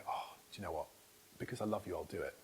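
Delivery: softly voiced, low-key child's consent; tender willingness. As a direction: give in gently, quietly, as a loving child would. Voicing his willingly obedient kids.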